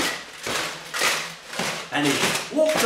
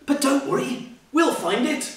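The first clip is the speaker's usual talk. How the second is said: kindly; 9 semitones higher than usual. Acted. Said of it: "said all his friends kindly".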